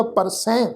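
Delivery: ਪਰਸੈ with a nasalised ending, "par-sain"; ਪਰਸੈ ending on nasal "ai". Shown as a demonstration. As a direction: send the last vowel of ਪਰਸੈ through the nose. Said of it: "ਨਾਸਕੀ tone ਵਿੱਚ ਪਾਠ ਉਚਾਰਨ ਹੋਏਗਾ".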